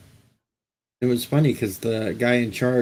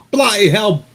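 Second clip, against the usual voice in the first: put-on "bloody hell" in a big, high, loud Liverpool accent; mocking Liverpool accent, much higher and louder; loud rock drummer voice; 11 semitones higher, 11 dB louder than usual. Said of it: "If that wasn't Ringo".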